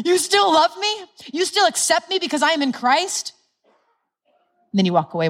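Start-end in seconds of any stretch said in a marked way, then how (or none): 0.1-3.3 high, delighted disbelief; amazed wonder. Shown as a demonstration. Believer confessing, amazed they are still loved. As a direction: gasp it out in joyful surprise. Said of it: "No, it's like this".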